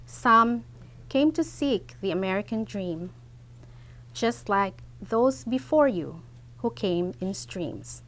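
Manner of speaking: measured poem recital with pauses between phrases; unhurried public poetry reading. Acted. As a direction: recite it line by line, letting each line fall away at the end. Reads own poem to audience.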